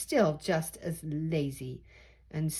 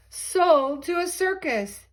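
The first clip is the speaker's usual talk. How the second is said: dramatic exclamation; 10 semitones higher, 6 dB louder than usual. A narrator's reading. Dramatic turn in story.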